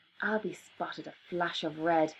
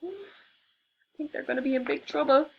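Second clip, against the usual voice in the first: gasping; 8 semitones higher than usual. Acted. Gasping aside to children.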